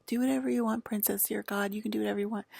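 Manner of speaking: lightly mimicking empty permission; mildly sing-song mockery; mock indulgence. Mocking their insincere permission.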